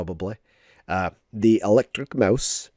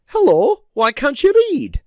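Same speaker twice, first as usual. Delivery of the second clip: much higher squeaky cartoon voice; Pikachu voice; 13 semitones higher, 4 dB louder than usual. Shown as a demonstration. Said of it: "it would be like".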